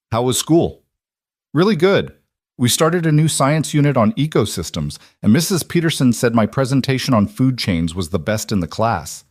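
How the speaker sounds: bubbling over with news from school; a son thrilled his father is home; excited child. Acted. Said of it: "Eli's excitement was palpable".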